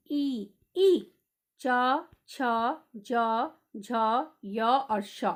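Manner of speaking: ई, च, छ, ज said one by one with pauses; sounding out palatals. Shown as a demonstration. Teacher demonstrates palatal letters for the class. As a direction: tap out each palatal sound. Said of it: "तालु को जीभ छू रही है".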